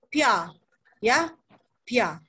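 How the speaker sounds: pia beginning with a light airy P; thin Korean B. Shown as a demonstration. Teacher introducing the next syllable, lightly released pia. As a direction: say pia with lips barely pressed. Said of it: "tapi pia".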